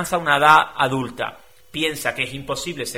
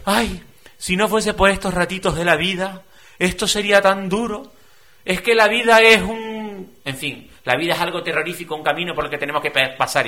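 self-pitying lament; 4 semitones higher than usual. Retold or imitated. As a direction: act out a victim sighing over life. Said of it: "gente que te dice". (lamento victimista exagerado)

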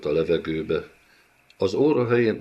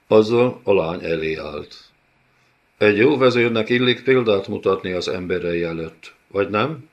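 smug villain; 3 dB louder than usual. Acted. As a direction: relish the cruelty as a lesson. Villain announces his cruelty. (önelégült gonosz vezér)

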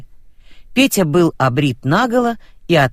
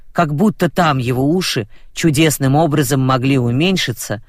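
ordinary delivery, nothing marked

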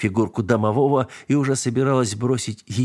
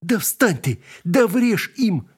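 much higher, slow, desperate yell; helpless yelling; 9 semitones higher, slower than usual. A narrator's reading. Narrator cat on the wardrobe yelling at the spirit, desperate. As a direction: shout down from the wardrobe in despair. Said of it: "бессильно орал я со шкафа".

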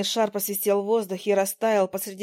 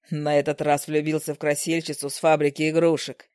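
lower husband voice, amused; 6 semitones lower than usual. Acted. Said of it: "со смешком ответил муж".

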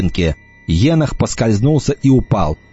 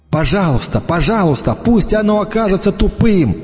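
higher, pleading, rising desperation; desperate prayer; 8 semitones higher than usual. A narrator's reading. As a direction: beg it higher each time. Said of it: "молился я". («пожалуйста» всё выше и отчаяннее)

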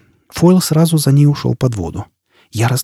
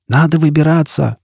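mild urgent shout; raised call over the roar; 3 semitones higher than usual. Acted. Foyle urges Jisbella out of the river, mild shout. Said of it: "прокричал он".

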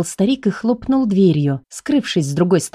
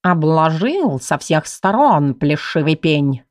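snooty bored cat; 3 semitones lower, slower than usual. Acted. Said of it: "фыркнул кот".

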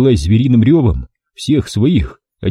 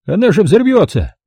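high horrified cry; high squeaky man terrified; horrified squeak; 10 semitones higher than usual. A narrator's reading. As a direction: gasp in horror. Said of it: "ужаснулся Евнух".

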